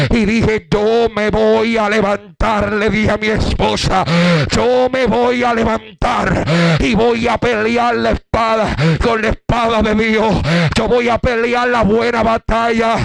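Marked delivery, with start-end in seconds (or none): 0.7-2.7 slow, drawn-out declaration; retold resolute cry. Preacher retelling his vow to his wife, resolute cry. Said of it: "y comencé a gritar". 4.5-13.0 retold resolute cry. Preacher retelling his vow to fight, resolute cry. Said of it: "y comencé a gritar".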